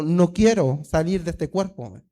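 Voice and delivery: slow, low imitation of a defiant spirit; mild retold yell. Preacher imitating a spirit refusing to leave, mild slow yell. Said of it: "y me gritó".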